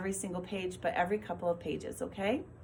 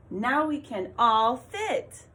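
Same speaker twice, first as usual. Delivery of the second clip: slow, louder, eager read of "Now we can all fit"; excited reading; 3 semitones higher, 5 dB louder, slower than usual. Shown as a demonstration. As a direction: read it with exclamation-point excitement. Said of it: "So your voice should sound excited".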